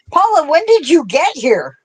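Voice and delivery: high, mock-startled greeting; mock surprise. Mock greeting of imagined Paula.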